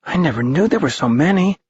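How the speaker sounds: put-on high, quick awed kid; a boy marvelling; amazed boy. A narrator's reading.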